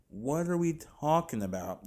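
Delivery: mild incredulous repeat. Real, not acted. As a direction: push the disbelief a little further.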